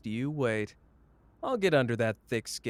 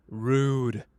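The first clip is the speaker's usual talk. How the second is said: amused; 5 dB louder than usual. Acted. Laughs at absent Ijichi.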